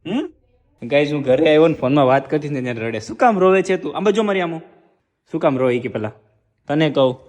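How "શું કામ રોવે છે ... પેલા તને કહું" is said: louder, pressing her to say why she cries; loud coaxing plea. Real, not acted. Husband pleading with crying wife, loud and insistent. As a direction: push her to look at you and talk.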